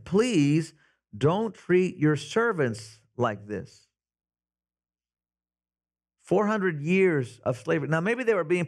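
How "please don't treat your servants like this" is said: slow, mild pleading repeat. Retold or imitated. Preacher rereading the foremen's plea, slow pleading. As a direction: stretch each word as a plea. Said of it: "they pleaded with him".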